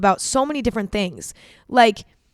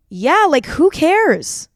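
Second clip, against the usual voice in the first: who cares; 7 semitones higher, 4 dB louder, much slower than usual. Real, not acted. Realizing nothing else matters.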